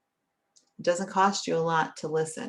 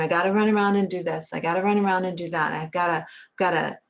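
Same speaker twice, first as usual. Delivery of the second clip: frenetic rushing; 3 dB louder, faster than usual. Acted. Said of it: "frenetic energy".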